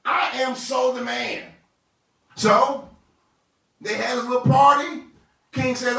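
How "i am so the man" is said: loud, high, crowing boast; a vain man bragging loudly about his invitation; gloating Haman. Acted. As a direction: strut and crow like a self-satisfied schemer.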